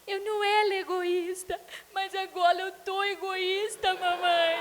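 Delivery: put-on "era" said as "ela", the R turned into an L like a small child; childish "ela" for "era", high and teary; mother mimicking her son, "era" spoken as "ela"; child's lisping R. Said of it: "Ele fala ela, né? O, o L".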